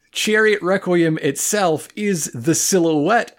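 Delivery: high, pompous pronouncement; theatrical speechifying on the edge of laughter; mock-grand oration. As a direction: proclaim it like a profound truth. Mock-profound speech, ending in a joke.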